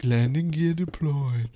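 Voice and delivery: slow, put-upon computer announcement; lightly voiced reluctant ship computer; grumpy computer voice. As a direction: drag it out like a bored, annoyed machine. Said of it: "It's like".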